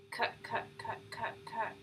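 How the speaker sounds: repeated cut then a pause; stutter with pause. Shown as a demonstration. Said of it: "pause in the middle of your stutter".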